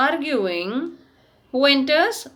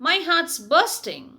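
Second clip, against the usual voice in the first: mock weeping shout; 6 semitones higher than usual. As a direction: wail it out, heart giving way.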